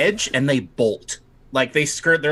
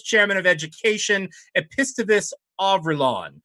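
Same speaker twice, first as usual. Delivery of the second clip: higher, commanding list of names; higher, imperious summons; Night Lord roll call; 7 semitones higher than usual. Acted. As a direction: bellow each title down the hall. Night Lord calls out officials.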